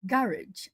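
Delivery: "Garage" as GARR-ij, falling; recalled pronunciation. Shown as a demonstration. Streamer rediscovering their own pronunciation, "Garage" as GARR-ij. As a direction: say "Garage" stressed on the first syllable, ending -ij. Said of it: "Is that how I pronounced it".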